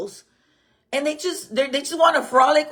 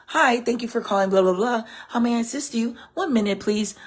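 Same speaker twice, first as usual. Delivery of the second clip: receptionist voice. Shown as a demonstration. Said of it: "I've got that receptionist voice".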